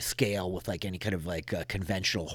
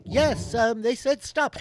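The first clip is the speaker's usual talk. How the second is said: put-on high accented voice, a little louder; Yana's accent, still half-formed; 7 dB louder, slower than usual. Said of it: "get that accent down".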